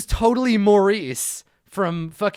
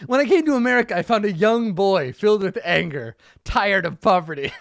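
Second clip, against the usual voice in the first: louder, pushing the speech; louder, more dramatic take; 4 semitones higher, 4 dB louder than usual. Shown as a demonstration. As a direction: deliver it with more weight, louder. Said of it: "Oh, boy".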